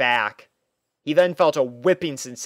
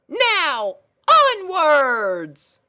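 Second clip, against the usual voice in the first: very high, loud and bright-eyed; a chirpy girl pony puzzled by her steed; squeaky cheerful pony; pony princess voice; 5 dB louder, much slower than usual. Acted. Pony character voice.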